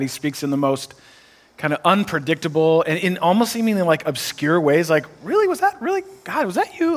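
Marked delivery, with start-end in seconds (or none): 5.2-7.0 high, swooping disbelief; puzzled, squeaked-up double-check; incredulous questioning. Acted. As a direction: question it in a much higher pitch. Voicing disbelief at God's message.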